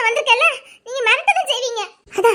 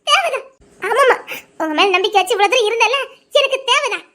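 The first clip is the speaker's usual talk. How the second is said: bitter self-blame. Acted. Hurt woman, bitter self-blame.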